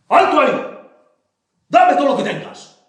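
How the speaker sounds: grito alto y fuerte; grito de asaltante. Acted. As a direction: atraca a gritos. Manuelona disfrazada asalta a Xico. (Manuelona disfrazada grita a Xico para asaltarlo)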